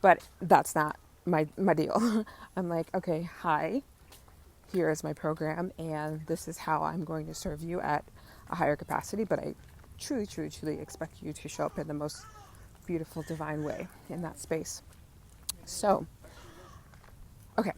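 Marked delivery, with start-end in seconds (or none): 2.9-14.8 soft earnest. Retold or imitated. Voicing herself to a client.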